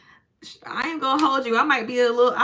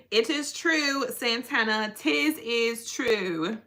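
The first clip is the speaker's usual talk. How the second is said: put-on proper English accent; slower than usual. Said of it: "That's a proper English accent".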